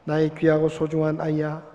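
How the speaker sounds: calm, gentle poem reading; reading a poem aloud. Acted. Pastor reading Footprints in the Sand, calm recitation. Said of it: "제가 한번 읽어볼 테니까".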